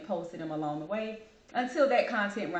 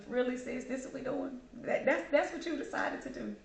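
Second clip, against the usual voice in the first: mock disbelief; 5 semitones higher, 3 dB quieter than usual. Repeats the joke to late sister.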